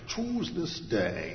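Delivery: put-on slow, hinted Scottish accent; Sean Connery. Preacher imagining the movie Joshua, slow mock Scottish accent. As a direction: draw it out in an amateur Scottish impression. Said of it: "that Scottish accent would be perfect".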